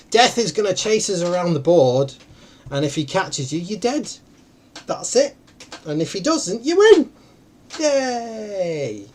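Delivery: hammed-up mock-Russian accent; silly Russian accent. Game host explaining the rules to the players, silly Russian accent. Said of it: "I suddenly went into that stupid accent".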